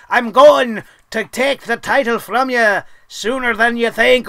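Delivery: lightly put-on Irish lilt, mocking Finn Balor; a hint of a jokey Irish brogue; mock Irish accent. Mocking the champion's threat in a light Irish accent. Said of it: "in his Lucky Charms accent".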